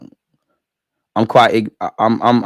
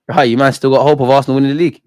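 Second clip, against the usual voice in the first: mocking tease; 2 semitones higher, 6 dB louder, faster than usual. Real, not acted. Mocking rival fans' hopes.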